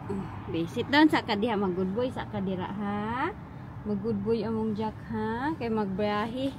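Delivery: soft coaxing. Real, not acted. Coaxing dog to sit for ride.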